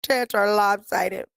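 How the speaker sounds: slow, drawn-out mocking imitation; mock disgusted heckler; mock critic. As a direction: imitate a rude guy, dragging out the words. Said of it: "one guy goes".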